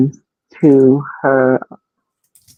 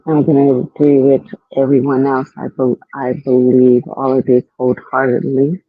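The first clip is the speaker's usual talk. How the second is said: muffled. Real, not acted. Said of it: "Savannah, you sound like muffled".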